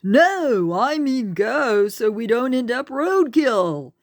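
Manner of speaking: high, loud, hurried insistence; urgent explanation. A narrator's reading. Tor pulling Charlene across before traffic hits, loud urgent insistence. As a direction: push her to move now. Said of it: "Tor explained".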